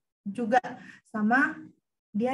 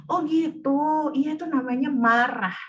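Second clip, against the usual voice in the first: louder patient mother naming the feeling; explaining mother; 3 semitones higher, 5 dB louder than usual. Pretend. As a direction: teach the kid calmly what anger is. Parent voiced in example dialogue. (suara ibu yang sabar menjelaskan)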